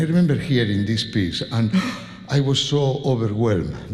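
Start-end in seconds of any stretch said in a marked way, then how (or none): 1.7-2.2 awed gasp. Retold or imitated. Recalls being overwhelmed as child.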